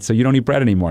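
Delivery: mildly sarcastic, lifted question; mock-innocent questioning. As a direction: gently needle him with the question. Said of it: "sarcastic line of questioning coming his way".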